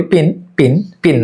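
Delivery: "পিন" with a plain, unaspirated p; local unaspirated P. Shown as a demonstration. Teacher showing learners the common way, unaspirated "পিন". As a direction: say "পিন" with no puff of air on the p. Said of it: "আমরা পিন বলি".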